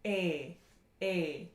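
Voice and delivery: A as a pure, held, tense "ay" without glide; long tense vowel. Shown as a demonstration. Teacher demonstrating a German vowel, long pure A. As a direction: hold A steady and unrounded. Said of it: "It's gonna sound like this".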